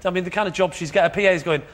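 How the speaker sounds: normal talking voice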